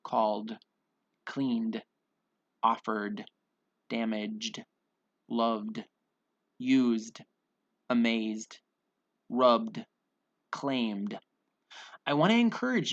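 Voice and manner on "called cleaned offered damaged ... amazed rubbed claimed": crisp word list, each ending in a voiced d; measured, one-word-at-a-time pronunciation drill; final D sound. Shown as a demonstration. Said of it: "we have the D sound".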